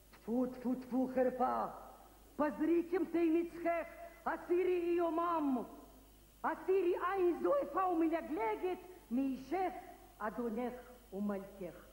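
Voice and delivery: put-on declaimed stage Hebrew in a Russian accent; Shakespeare monologue. Lyuba auditioning with Shakespeare, declaimed monologue. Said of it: "אני עושה מונולוג".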